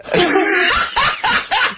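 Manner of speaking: high, squealing laugh; helpless laughter. Real, not acted. Friend losing it at the pizza joke, helpless laughter. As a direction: crack up in high-pitched laughter.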